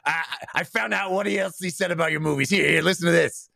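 gruff PR agent. Retold or imitated. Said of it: "that was my, uh, gruff P R agent".

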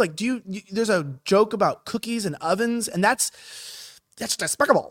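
lightly voiced indignant pundit; a hint of Ben Shapiro's outrage; mild Shapiro-style mock disgust; Ben Shapiro impression. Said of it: "That's my best Ben Shapiro".

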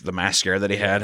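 usual speaking voice

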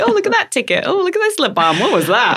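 high, excited little discoveries; surprised delight. Retold or imitated. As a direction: squeal over each found treasure. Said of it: "And you're like".

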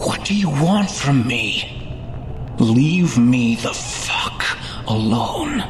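1 angry yell. A narrator's reading. Narrator yelling at the ghost.

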